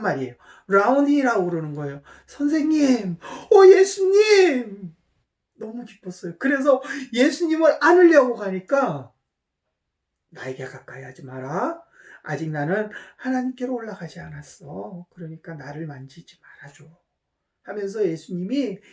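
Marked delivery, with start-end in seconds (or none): 2.3-4.9 high, slow, loud joyful calling out; joyful cry. Acted. Mary joyfully recognizes Jesus. 10.3-16.8 lower, much softer reassuring voice; gently calm an overexcited Mary; calming Jesus. Acted. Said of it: "마리아를 차분히 안정을 시키세요".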